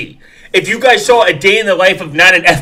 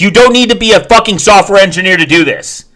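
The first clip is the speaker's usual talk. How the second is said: loud, higher outburst; angry rant; 5 semitones higher, 5 dB louder than usual. Real, not acted. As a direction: hammer the point home. Ranting at video.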